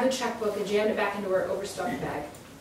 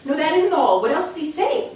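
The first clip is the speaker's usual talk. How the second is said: much louder, higher insistence; angry demand; 8 semitones higher, 10 dB louder than usual. Acted. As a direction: demand the rest of the message. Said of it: "bafflement shifted to anger".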